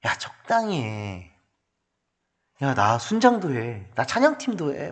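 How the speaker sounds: drawn-out, belittling nagging; acted dismissive friend, mostly soft and slow; worldly discouraging. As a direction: talk a keen believer down. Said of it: "우리에게 이렇게 말하고 있어요".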